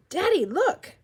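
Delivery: put-on high, loud little-kid call to Dad; gleeful child showing off; excited child. A narrator's reading. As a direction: shout proudly for Dad's attention, high-pitched. Excited child calls to father.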